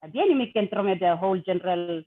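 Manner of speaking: speaking Tok Pisin Pidgin. Real, not acted. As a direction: Papua New Guinea Pidgin. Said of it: "say something in, in Pidgin to our people first".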